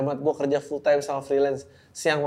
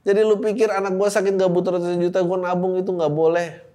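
indignant; 4 semitones higher, 4 dB louder than usual. Real, not acted. Angry at the father.

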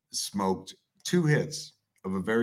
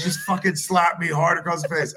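mock desperate plea; 5 semitones higher, 6 dB louder than usual. Wife begging to be slapped.

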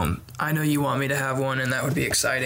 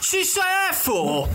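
squeaky mock voice; much slower than usual. Silly voice joke, laughing.

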